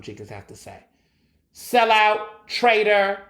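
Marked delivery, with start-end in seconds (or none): 1.5-3.2 louder, higher name-calling; denouncing. Real, not acted. Podcast host calling out an athlete, loudly denouncing. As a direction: hurl each word out loudly as an accusation. Rant denouncing a former player.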